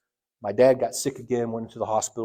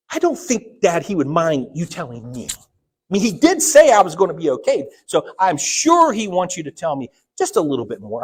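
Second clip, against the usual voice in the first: coaxing plea; 3 semitones higher, 6 dB louder than usual. Retold or imitated. Coaxing father for secret.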